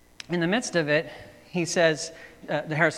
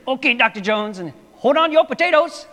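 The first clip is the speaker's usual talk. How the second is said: put-on much higher, loud excited kid voice; Short Round kid voice; 9 semitones higher, 10 dB louder than usual. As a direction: squeal it like the little getaway driver. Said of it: "my Indian accent got into that".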